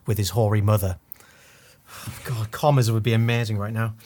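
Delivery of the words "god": ordinary talk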